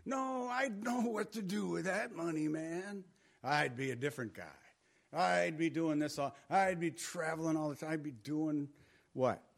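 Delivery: mock the daydreaming would-be millionaire; boastful dreamer. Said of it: "And people say".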